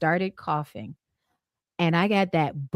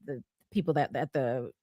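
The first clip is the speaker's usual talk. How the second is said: normal talking voice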